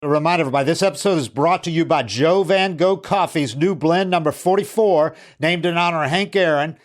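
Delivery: upbeat sponsor read. Acted. Host breaks from baseball talk to plug the sponsor, in a bright ad-read voice.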